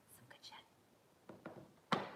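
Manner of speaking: slow breathy aside, almost no voice; whisper. Real, not acted. Streamer plugging her podcast to viewers, slow whisper. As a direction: lean in and whisper it like a secret.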